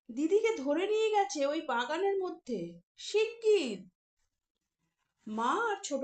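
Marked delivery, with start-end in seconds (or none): 0.1-3.9 hop with urgency; boy jumping about urging the grown-ups to hurry; excited urging. Acted. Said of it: "Papu লাফাতে লাফাতে বলল".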